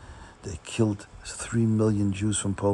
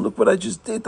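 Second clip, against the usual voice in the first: self-reproach; 12 semitones higher, 3 dB louder than usual. Acted. Chassid blaming himself for the duck, pained and higher. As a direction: Look what I just did, said higher and pained. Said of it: "he thinks to himself".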